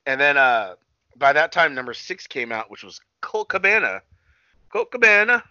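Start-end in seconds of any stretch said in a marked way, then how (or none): 4.7-5.4 higher, louder mock announcer call; ring announcer call. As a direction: belt the name out like a ring announcer. Calling out entrant like announcer.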